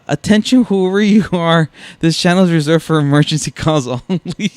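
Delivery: high, loud official announcement, imitated; police dispatcher. Dispatcher warning an unknown caller, imitated officious voice. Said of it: "her line that sets him off".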